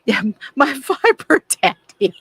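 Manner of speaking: loud, high laugh through the words. Real, not acted. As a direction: crack up at your own joke. Cracks up at own joke.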